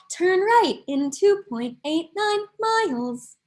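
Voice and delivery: lightly imitated navigation prompt; measured automated-direction impression; phone GPS voice. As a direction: interrupt yourself as the GPS. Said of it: "dependent on my phone G P S".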